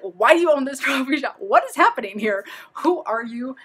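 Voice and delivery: baffled delight at the odd owners; amazed disbelief. Retold or imitated. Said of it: "I was like".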